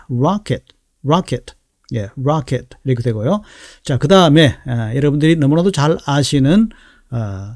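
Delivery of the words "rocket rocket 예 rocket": "rocket" with the last vowel close to a short i; light, unstressed ending on "rocket"; reduced second vowel. Shown as a demonstration. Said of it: "거의 이에 가까운 발음".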